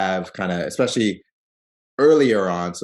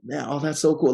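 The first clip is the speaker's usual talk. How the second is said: high-pitched imitation of someone thrilled; excited gushing; 7 semitones higher than usual. Popcorn seller delighted by the couple, excited gushing. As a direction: gush it lightly, pitched up. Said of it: "she's getting excited".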